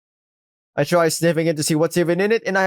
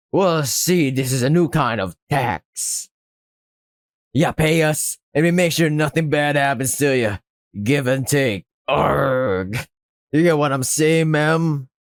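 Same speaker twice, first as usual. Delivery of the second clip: lightly voiced pirate racketeer; understated pirate shakedown; pirate act. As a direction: explain the threat with a hint of pirate. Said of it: "Whatever this pirate act is supposed to be".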